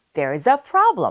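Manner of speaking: problem stressed, other words light and weak. Explaining sentence stress on a key word in english: stress on problem. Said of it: "이 problem이라는 단어에 힘을 많이 실어주게 돼요".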